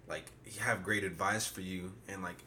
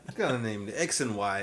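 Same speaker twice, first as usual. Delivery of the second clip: laughing; 2 semitones higher, 7 dB louder than usual. Real, not acted. Teasing through laughter.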